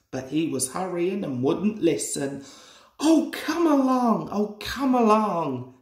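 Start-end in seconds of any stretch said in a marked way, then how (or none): 3.0-5.8 higher, pushy puffing call; impatient puffing. A narrator's reading. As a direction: hurry them on, not listening. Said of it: "he puffed impatiently".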